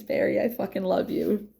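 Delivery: usual speaking voice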